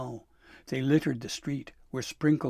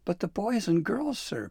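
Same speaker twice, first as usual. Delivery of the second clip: high, loud shocked protest; gasping dismay; 10 semitones higher, 5 dB louder than usual. A narrator's reading. Pim protesting to Santa about the children, shocked gasp. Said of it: "Pim gasped".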